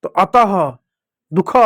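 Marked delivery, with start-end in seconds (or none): 1.3-1.5 दुख said as "du-kha-h"; final visarga. Shown as a demonstration. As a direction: add a breathy "ha" ending to दुख. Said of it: "इस तरह से".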